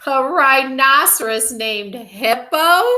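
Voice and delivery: high, loud, drawn-out hilarious disbelief; crying out. A narrator's reading. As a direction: howl it slowly as an incredulous question. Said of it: "Fluffy cried".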